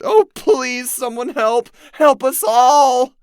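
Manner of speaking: high, loud, pleading shriek; slow, drawn-out desperate screaming; screaming plea. A narrator's reading. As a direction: beg anyone to hear you. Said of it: "the woman screamed".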